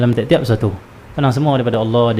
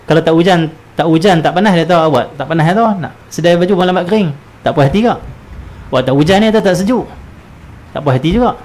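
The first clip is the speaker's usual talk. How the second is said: whiny griping complainer, higher; mock complainer; 5 semitones higher than usual. Preacher mimics a grumbler fretting about the weather, whiny. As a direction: grumble like someone never satisfied.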